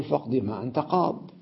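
قاض as "qaad", ending on a bare d; spoken verse closed on vowelless daad; stop without yaa. Shown as a demonstration. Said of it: "يوقف عليها بحذف الياء".

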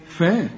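a thin open فا; light faa. Shown as a demonstration. Teacher asks how to say it, light فا. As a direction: say فا light, never thickened. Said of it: "يبقى إذن الفاء إيه بقى".

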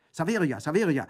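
loud high call to the servant. Acted. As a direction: call her from across the house. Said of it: "rief Orso". (laut und hoch rufend)

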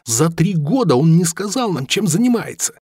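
high, indignant cry; furious disbelief at the betrayal; angry outburst. A narrator's reading.

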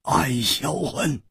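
slow, ringing verse recital; poem recitation. Acted. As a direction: intone it phrase by phrase, pitch climbing high. Recites the couplet. (抑扬顿挫地吟诵诗句)

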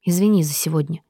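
ordinary delivery

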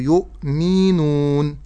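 "يؤمنون" with the mi syllable dragged out; overlong mim. Shown as a demonstration. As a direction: linger too long on the mim of "يؤمنون". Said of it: "ألا أزيد في زمن الميم". ("يؤمنون" بإطالة الميم)

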